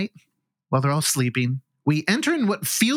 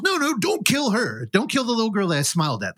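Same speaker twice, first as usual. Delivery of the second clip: put-on pleading girl; 6 semitones higher than usual. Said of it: "the girl goes".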